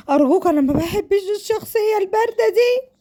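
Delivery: acted plea climbing high; desperate pleading. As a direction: beg in a rising, high-pitched whine. Sara begging her parents.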